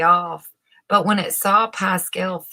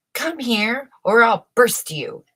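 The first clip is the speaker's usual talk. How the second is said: raised threatening shout at the balloon; 5 semitones higher, 6 dB louder than usual. A narrator's reading. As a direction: bark the threat up high. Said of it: "he shouted".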